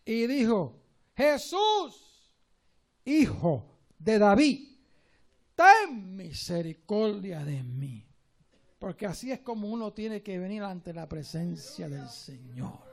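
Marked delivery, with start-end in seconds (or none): 1.1-8.1 un clamor fuerte y lento de súplica; clamando a voces. Retold or imitated. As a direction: clama como el ciego que pide ayuda. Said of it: "Comenzó a dar voces". (clamor fuerte y suplicante)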